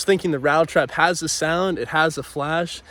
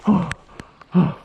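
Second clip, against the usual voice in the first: excited; 4 semitones higher than usual. Real, not acted. Fish yanks the rod.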